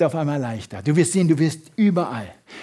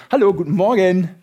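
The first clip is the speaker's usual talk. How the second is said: bright, lively hello, a bit louder; cheerful greeting; 3 dB louder than usual. Shown as a demonstration. Best friend answering the phone, cheerfully cheerful. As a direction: sound glad the phone rang. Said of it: "Eine ganz andere Stimme".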